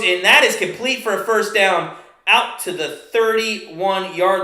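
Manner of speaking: live football call, steady pace; play-by-play. Acted. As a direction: call the downs like a broadcaster.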